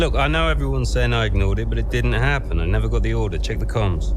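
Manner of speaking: firm defiant protest; defensive. Acted. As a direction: push back hard, not backing down. Defending himself against accusation.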